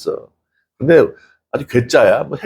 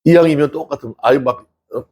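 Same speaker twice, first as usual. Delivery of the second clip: ordinary talk, nothing marked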